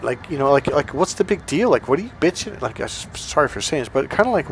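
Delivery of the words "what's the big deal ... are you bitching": higher-pitched imitation of a baffled retort; uncomprehending. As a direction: protest as if nothing is wrong. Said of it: "he literally didn't understand".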